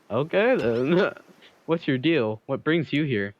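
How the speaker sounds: slow, drawn-out character voice. Acted. Streamer voicing a killer greeting the newcomer, slow and drawn out. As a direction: stretch it out as a cocky killer.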